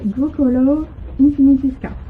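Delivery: put-on a French speaker lightly putting on an English accent for the pattern name. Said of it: "attention, accent anglais". (avec un léger accent anglais)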